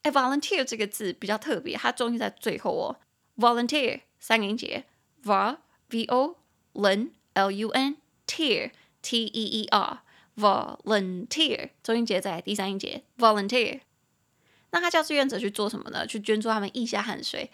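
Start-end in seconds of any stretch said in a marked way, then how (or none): 3.4-13.8 volunteer 重音放在 teer，拉长慢念; 把 volunteer 拆成 vol lun teer 慢慢拼读; stress on third syllable. Shown as a demonstration. (老师示范 volunteer 重音在第三音节)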